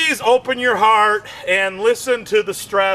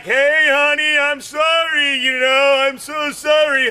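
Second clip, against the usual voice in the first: mock sheepish apology; 4 semitones higher than usual. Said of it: "you're like".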